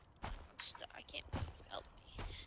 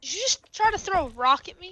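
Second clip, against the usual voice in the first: loud; 5 semitones higher, 12 dB louder than usual. Real, not acted. Monster player calls out loudly.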